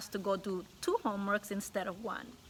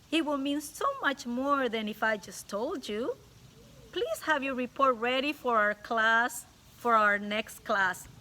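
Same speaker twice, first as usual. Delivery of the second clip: sweetly stern teacher; 3 semitones higher, 3 dB louder than usual. Acted. Teacher assigning the boy an extra report, sweetly stern. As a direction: hand out the punishment with a smile. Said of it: "Her eyes were the color of a thundercloud".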